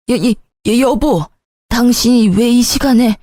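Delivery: stammering, flustered mother-in-law; startled. A narrator's reading. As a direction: stutter in shock at being caught. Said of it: "화들짝 놀라며 기겁하는".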